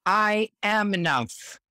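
slow, firm I am enough with gusto; said with total belief. Shown as a demonstration. Countess leads the group affirmation with gusto. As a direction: declare I am enough with full conviction. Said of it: "say it with total belief in yourself that I am enough, and say it with gusto".

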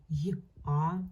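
й and а as two separate sounds; sounding out letters. Shown as a demonstration. Teacher showing the class the two sounds, sounding out. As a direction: say й, pause, then а. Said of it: "Буква Я позначає дв-, звуки".

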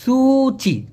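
সুচি with a clear s sound; clear pronunciation. Shown as a demonstration. Teacher contrasting সুচি with চুচি for learners. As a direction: say সুচি starting with s, not ch. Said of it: "চুচি না কিন্তু সুচি".

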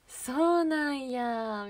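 very slow, stretched-out doubt; acted, lingering sceptical reaction; doubtful. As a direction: drag it out as if privately suspicious. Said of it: "そういう感じで言うみたいな".

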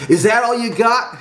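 loud, high jeering yell; taunting shout. A narrator's reading. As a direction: goad him into hitting harder, loudly. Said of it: "shouted Willard".

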